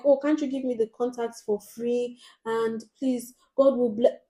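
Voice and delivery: pleading, rising to a loud blessing; beg, then pile on the blessings; mock begging customer. Customer begging the vlogger for free contacts, hammed-up pleading. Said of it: "She's like".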